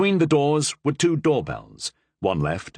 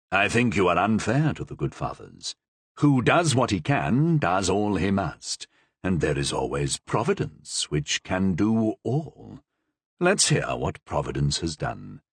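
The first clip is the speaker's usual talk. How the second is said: lightly voiced dry cardinal; 4 semitones lower than usual.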